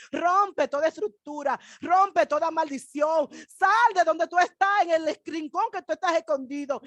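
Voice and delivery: rising sermon exhortation, some words slowed; fervent preaching. Acted. Preacher urging mothers and fathers in church, fervent preaching. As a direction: call the church to stand up and fight.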